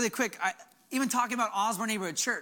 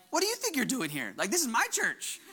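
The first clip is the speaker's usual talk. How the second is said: healthy sass; 3 semitones higher than usual. Retold or imitated. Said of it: "a healthy sass".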